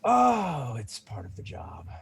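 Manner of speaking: lightly voiced proud fighter, mostly in own voice; a hint of a seasoned champion; casual veteran fighter answering; Bruno the champion.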